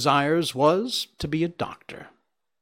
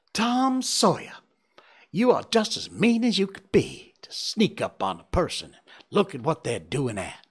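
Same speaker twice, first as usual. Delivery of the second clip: tearful, high, shamed outburst; crying girl; 4 semitones higher, 3 dB louder than usual. Acted. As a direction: scold him through tears. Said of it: "burst out crying with shame and vexation".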